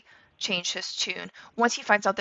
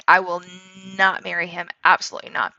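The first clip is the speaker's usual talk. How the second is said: vehement refusal; 4 dB louder, faster than usual. Retold or imitated. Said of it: "vehemently saying".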